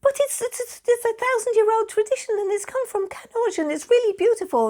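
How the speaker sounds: very high-pitched, stammering mock protest; acting out flustered, earnest pleading; pleading defence. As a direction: squeakily plead the case for it. Retelling own pleading defence.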